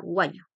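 "what you" run together as "wha-you"; reduced "what you" as one word; dropped "do". Shown as a demonstration. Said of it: "el do a veces no suena".

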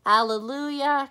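loud joyful acclamation; proclaimed. Real, not acted. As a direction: ring it out for the congregation. Easter acclamation.

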